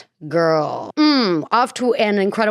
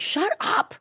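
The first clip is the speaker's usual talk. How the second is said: mock retort; 12 semitones higher, 5 dB quieter than usual. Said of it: "I was like".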